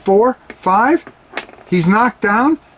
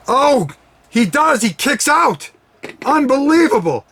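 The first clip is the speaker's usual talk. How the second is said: excited kick-out call, much higher; wrestling commentator; 6 semitones higher than usual. Acted. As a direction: erupt as the wrestler kicks out. Commentator calls surprise kick-out.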